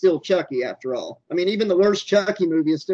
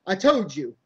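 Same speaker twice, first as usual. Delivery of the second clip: raised but controlled insistence; insistent; 4 semitones higher than usual. Acted. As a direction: press the point, coming down from the squeal. Repeats it, lower.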